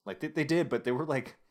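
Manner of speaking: usual speaking voice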